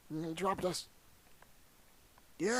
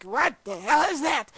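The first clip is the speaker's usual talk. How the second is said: startled outburst; 5 semitones higher, 6 dB louder than usual. Retold or imitated. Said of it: "And I'm like".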